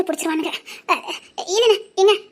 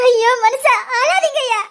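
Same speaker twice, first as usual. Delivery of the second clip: higher, distressed begging; anguished plea; 3 semitones higher, 4 dB louder, slower than usual. Acted. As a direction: plead with him to stop crying. Wife pleads with weeping husband.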